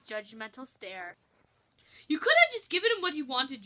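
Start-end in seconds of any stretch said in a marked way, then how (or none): 2.1-3.6 chef voice. Acted.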